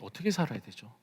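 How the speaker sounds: hushed question. Real, not acted. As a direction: let it sink in, asking very quietly. Same question after long silence. (낮게 읊조리는 조용한 물음)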